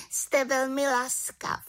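a cheerful small witch with plans; little witch. Acted. The little witch invites Havran to the village, high and eager.

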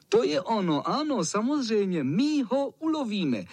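put-on the boys cheer, sure they will hunt the cat, jubilant. A narrator's reading. Excited kids cheering at a great idea. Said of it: "jásali ostatní".

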